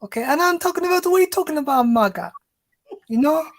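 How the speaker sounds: put-on Jamaican accent. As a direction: tell it in a hint of Jamaican accent. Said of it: "So you want me to do a Jamaican accent?".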